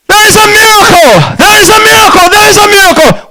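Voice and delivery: high, urgent repeated proclamation; jubilant exclamation. Retold or imitated. Doctor rushing out to announce a miracle, retold jubilantly. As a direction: proclaim the miracle in a high-pitched cry, slowing the first.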